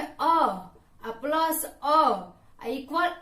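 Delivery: slowly sounding out अ plus अ; slow, deliberate vowel demo. Shown as a demonstration. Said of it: "समय भी ज्यादा लगा".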